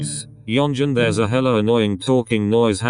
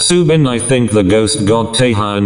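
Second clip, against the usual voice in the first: louder, urgent blurt about the ghost; loud alarm; 7 dB louder than usual. Acted. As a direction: sound the alarm loudly.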